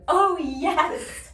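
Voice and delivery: high, loud blissful "oh yes"; imitating relief sound. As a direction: ham up a sigh of relief. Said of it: "Kendall going".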